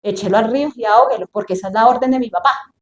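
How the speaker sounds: quick, offhand imagined command; dismissive order. Acted. Imagined princess obeying her father's order, brisk and dismissive. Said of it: "Qué era lo normal que yo hubiera hecho".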